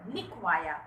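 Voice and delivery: लिखवाया with weight on लि; stress on first syllable. Shown as a demonstration. Teacher showing where stress falls, stressed first syllable. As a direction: lean on the लि of लिखवाया. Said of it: "लिखवाना में ली, ली पर".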